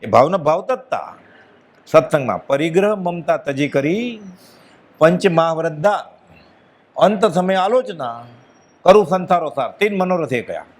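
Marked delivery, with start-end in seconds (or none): 2.5-9.7 slow, measured devotional recitation; verse recitation. Acted. Preacher reciting a sacred verse to the congregation, slow and measured. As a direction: draw each line of the verse out slowly.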